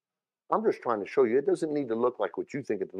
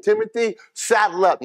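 blunt command; 10 semitones higher, 4 dB louder than usual. Shown as a demonstration. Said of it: "he didn't say it like that".

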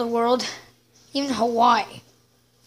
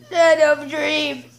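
whisper; slower than usual. Acted. Dreamy aside about America.

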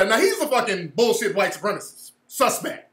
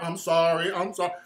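soft, fading mock sorry, lower; groveling mock apology; 4 semitones lower, 4 dB quieter than usual. Mocking the caller's apology, soft and groveling. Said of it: "You, you got me sound like a coon almost".

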